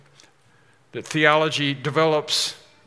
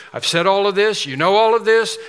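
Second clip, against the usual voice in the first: pressing point; 5 semitones higher, 7 dB louder than usual. Real, not acted. Preacher presses the congregation.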